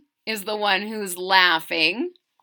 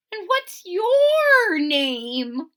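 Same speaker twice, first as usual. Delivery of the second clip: polite question; 6 semitones higher, 5 dB louder, much slower than usual. Acted. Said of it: "he tried to be polite".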